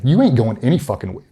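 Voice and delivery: blunt doctor's order. Retold or imitated. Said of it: "just like that".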